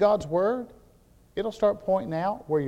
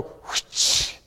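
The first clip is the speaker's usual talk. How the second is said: swish of a belt. Retold or imitated. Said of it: "hear something go".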